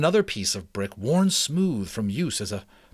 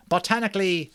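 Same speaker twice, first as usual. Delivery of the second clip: put-on higher, kindly old mouse; 9 semitones higher, 4 dB louder, faster than usual. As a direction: speak as a wise old mouse. Ages speaks, then interrupted.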